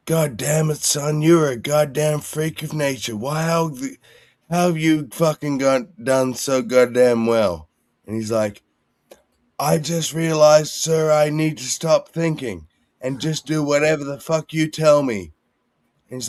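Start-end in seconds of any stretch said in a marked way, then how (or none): 0.1-7.7 drill sergeant yelling. Retold or imitated. Drill sergeant yelling at the surprisingly good cadet, mock bellow. 9.6-15.3 cadet answering. Retold or imitated. Cadet answering sergeant in story.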